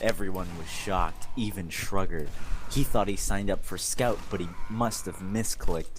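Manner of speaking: mock-serious fanfic narration; hammed-up storyteller; dramatic reading. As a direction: read it straight-faced like a novel. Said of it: "Dramatic reading".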